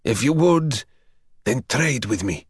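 put-on the young man begging the vampire for his parents' story; eager plea. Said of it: "young man bargains with vampire".

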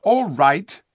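high, loud retort; indignant. A narrator's reading. Eustace replying to the rude dwarf, indignant. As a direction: answer back, stung. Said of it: "said Eustace indignantly".

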